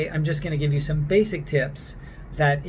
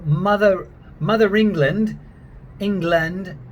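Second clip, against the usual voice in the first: louder, demonstrative English accent; 3 semitones higher, 4 dB louder than usual. Shown as a demonstration. Accent coach showing learners the rounded A, English accent. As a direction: give the words a traditional actorly English accent. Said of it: "that's more of a rounded one".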